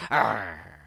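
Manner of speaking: brief voiced growl; snarl. A narrator's reading. Brer Fox follows his threat with a growl, snarling. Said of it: "he snarls".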